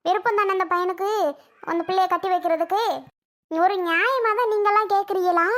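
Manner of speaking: put-on indignant old woman scolding the family; angry retort. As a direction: throw the question back at them, offended. Grandmother quarrelling at police station.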